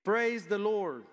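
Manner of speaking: slow, high, loud cry of praise; cried out. A narrator's reading. Elders before the throne crying out, slow and loud. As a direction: stretch out the amen like elders crying out. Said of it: "They cried out".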